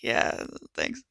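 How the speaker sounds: grinning thanks. Acted. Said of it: "kind of grins".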